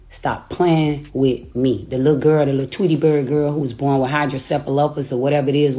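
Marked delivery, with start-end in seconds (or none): 0.1-1.9 slow, drawn-out warning. Shown as a demonstration. Scolding her online rival, slowly drawn out. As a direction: stretch each word out slowly.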